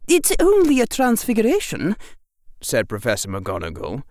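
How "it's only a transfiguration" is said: higher, matter-of-fact teacher; calm witch voice. A narrator's reading. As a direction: explain it drily. McGonagall calmly explains.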